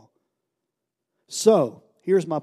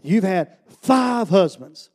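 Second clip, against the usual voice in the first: Jesus speaking; 3 semitones higher, 6 dB louder, much slower than usual. Retold or imitated. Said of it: "And he said".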